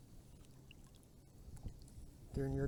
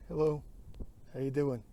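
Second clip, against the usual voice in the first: calling out; 4 dB louder than usual. Real, not acted. Calling out to someone far away.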